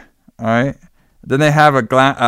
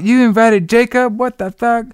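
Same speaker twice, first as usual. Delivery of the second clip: much higher, hammed-up panicked outburst; higher mock panic at the news; mock freak-out; 9 semitones higher than usual. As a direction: imitate her losing it, pitched way up. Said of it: "She starts freaking out".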